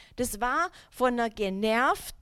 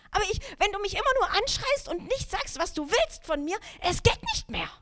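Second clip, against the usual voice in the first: exasperated; 9 semitones higher than usual. Retold or imitated. Exasperated inner thought.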